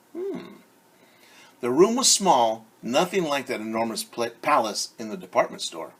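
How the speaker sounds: lively storybook read-aloud; reading to children. Acted. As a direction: read it like story time for kids. Reads picture book to children.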